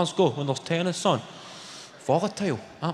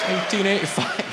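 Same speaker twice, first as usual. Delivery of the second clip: imitated Northern Irish accent, slightly raised; 3 semitones higher than usual. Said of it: "That's a fucking accent".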